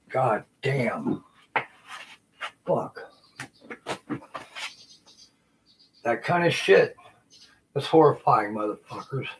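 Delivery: loud, high yelling in rage; furious shout. Real, not acted. Ranting at the generals he blames, furious shouting. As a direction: explode at them, full volume. Furious rant at those tormenting him.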